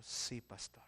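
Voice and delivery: meek whispered answer; whispered reply. Retold or imitated. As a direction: whisper it, moved. Woman answering the prophet. (la mujer responde al pastor en un susurro)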